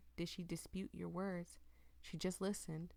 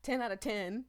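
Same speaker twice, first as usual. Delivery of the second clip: loud cheerful outro; 7 dB louder, faster than usual. Real, not acted. Outro praise.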